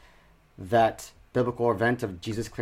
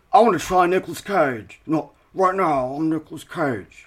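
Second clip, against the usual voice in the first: Nicolas Cage impression; 3 semitones higher, 3 dB louder than usual. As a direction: slip lightly into Nicolas Cage. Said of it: "let me try Nicolas Cage".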